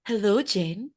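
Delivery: mock-formal phone greeting; stiff, put-on old-school hello; formal telephone voice. Shown as a demonstration. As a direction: greet a friend far too formally. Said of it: "I'm not going to go".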